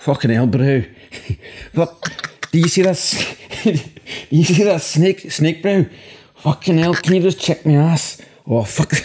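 botched put-on South African accent. Speaker trying to play a South African just bitten by a snake, bad South African accent. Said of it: "be a South African who's just had his arse bitten by a snake".

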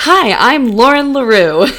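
polished presenter voice, loud. Demonstrating the voice used for a recorded introduction, very professional speaker voice. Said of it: "my very professional voice of".

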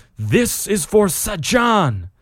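very high, roaring, booming, swooping bellow. Hammering fists into an orc's mouth; bellowing. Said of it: "all the while bellowing".

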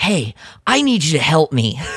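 slightly airy, heroic voice. Kyle finds his buddy and asks for help, in a slightly airy Kyle voice. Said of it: "my voice is a little airy".

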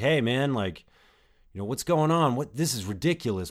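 livid, worked-up tone. Retelling confronting a guy who sent someone elsewhere, retelling a raised angry voice. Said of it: "I started to raise my voice".

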